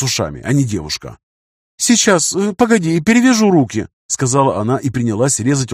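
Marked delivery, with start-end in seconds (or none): 1.8-3.9 put-on high, hurried young woman; flustered girl voice. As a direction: voice her flustered and eager. Girl bustling to help.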